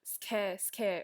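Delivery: put-on "scare" for square, Korean accent. Showing how Koreans say square, mock accent. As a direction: square said without the w, Korean style. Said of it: "When they say, like, square, it's like scare".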